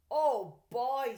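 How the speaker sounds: loud delighted exclamation; excited boy. A narrator's reading. Boy hearing about the invitation, excited. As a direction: burst out with joy. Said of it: "Stanley said".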